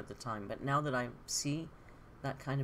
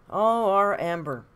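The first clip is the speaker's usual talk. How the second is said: mock fond; 5 semitones higher, 13 dB louder, slower than usual. Mock fond sigh about Amber.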